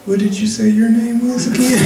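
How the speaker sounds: high, laughing mock caller voice; hammed-up high caller voice; nosy caller. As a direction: squeak out a nosy caller's question. Caller voiced in phone story.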